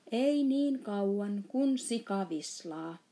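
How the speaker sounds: shouting. Acted. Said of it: "huusi I K J".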